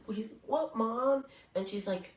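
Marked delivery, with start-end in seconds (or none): 0.4-1.2 put-on higher, louder kid voice asking mom; puzzled boy answering his mother; lightly voiced young son; child's reply.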